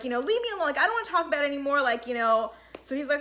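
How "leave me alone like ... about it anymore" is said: mock annoyed brush-off, rushing at the end; mad. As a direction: imitate her getting mad, quickening. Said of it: "she just gets mad".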